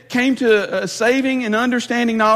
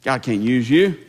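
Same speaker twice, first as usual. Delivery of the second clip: voicing Satan; 3 semitones higher than usual. Preacher voicing Satan taunting a sinner, mocking sneer. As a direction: sneer like the devil whispering doubts. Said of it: "he loves to tell us".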